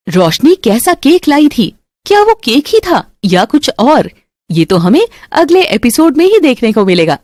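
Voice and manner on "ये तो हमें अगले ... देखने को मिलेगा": plain reading voice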